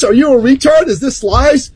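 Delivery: normal talking voice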